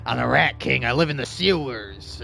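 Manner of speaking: hint of a low gruff rat king; lightly voiced sewer rat king. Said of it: "I do like my Rat King voice".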